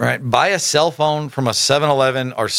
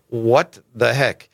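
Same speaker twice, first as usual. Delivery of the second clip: incredulous; much slower than usual. Real, not acted. Reacting to the email text.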